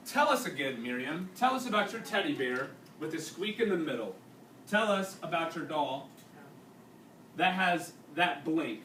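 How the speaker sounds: reading a story aloud to a class; unhurried read-aloud narration for students. A narrator's reading. Teacher reading a wartime novel to the class, steady narration.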